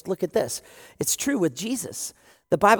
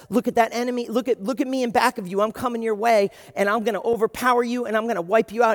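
threatening enemy; 3 semitones higher, 5 dB louder, faster than usual. Acted.

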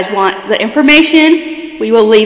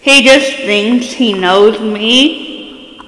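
trying not to laugh; 2 semitones higher, much slower than usual. Real, not acted. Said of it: "I'm trying not to laugh".

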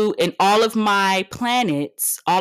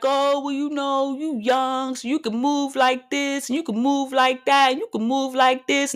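mocking others; 4 semitones higher than usual. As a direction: mimic them condescendingly. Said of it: "Motherfuckers wanna be like".

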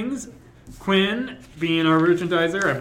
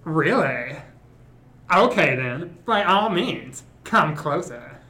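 Hannibal Lecter voice. Acted. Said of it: "do a transatlantic accent slash Hannibal Lecter voice".

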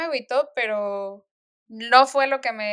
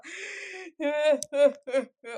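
a retold gasping sob for air; a hint of the heaving breath of hard crying; sobbing gasp for breath; 4 semitones higher than usual. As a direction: gasp in, as if too choked up to breathe. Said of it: "no podía respirar".

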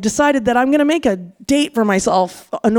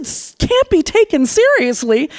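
higher, incredulous repeat of his words; indignant echo; 4 semitones higher than usual. Retold or imitated. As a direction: throw his phrase back at him, outraged. She throws his words back.

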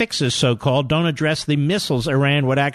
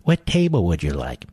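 lower, lightly mock French waiter voice; French maitre d'; 9 semitones lower than usual. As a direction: greet a diner like a snooty maitre d'. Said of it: "sounds like a French maitre d'".

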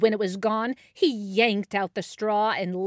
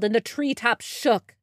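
usual speaking voice

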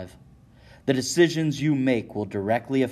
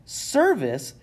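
high, sneering one-word scoff; 10 semitones higher than usual. Acted. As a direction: throw the word back with contempt. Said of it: "Shea scoffs".

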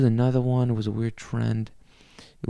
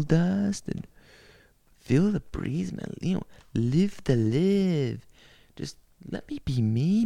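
laid-back stoner hippie, slow and dreamy; lightly voiced mellow hippie; 4 semitones higher, slower than usual. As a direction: drift through it like a stoned sixties hippie. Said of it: "the hippie back in the sixties saying".

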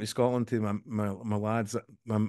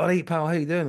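higher, friendly mock Scottish greeting; imitated Scottish accent; 6 semitones higher, 4 dB louder than usual. Friend imitating his guest's first greeting, Scottish accent. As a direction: greet like a chummy Scot, accent put on. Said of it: "He, he really sounds Scottish".

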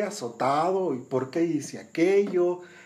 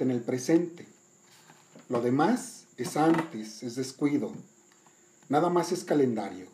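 poem reading. Acted. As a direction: recite it like verse. Reads the song poem aloud.

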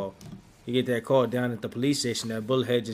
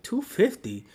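worked-up, higher-pitched incredulous retort; retold indignant protest; 7 semitones higher than usual. Retelling a man refusing to hand over two fifty, indignant. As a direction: protest it high and animated, as if cheated.

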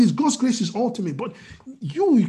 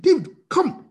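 higher called command; calling David; 7 semitones higher than usual. Shown as a demonstration. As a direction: call David over sharply. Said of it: "you know, David".

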